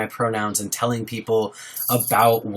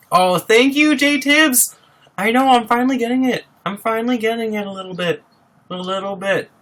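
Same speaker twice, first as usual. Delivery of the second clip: flattered high squeal to the chat; flattered and excited; 9 semitones higher than usual. Real, not acted. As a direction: squeal with delight at a compliment. Viewer compliments the scruff.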